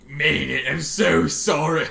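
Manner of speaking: loud, slow, broken begging; sobbing plea. Acted. Rainbow Dash begging Twilight, sobbing loudly. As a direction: beg through tears.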